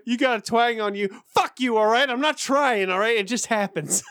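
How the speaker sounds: high, cheeky British accent, retold; defiant quip in a put-on British accent; answering those who tease his accent, in a high mock British twang. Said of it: "every time I try to say anything British".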